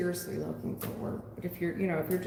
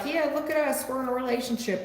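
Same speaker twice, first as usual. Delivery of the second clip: lightly mocking couple, pitched up; mock couple display; 6 semitones higher than usual. Fake couple parading their relationship for outside appearances, mock display. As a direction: put on a show-off couple's higher voice.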